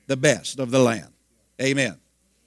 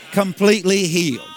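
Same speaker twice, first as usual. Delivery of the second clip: raised shouting proclamation; preaching shout; 3 semitones higher, 4 dB louder than usual. Real, not acted. Preacher shouts to the congregation about the healing, loud and triumphant.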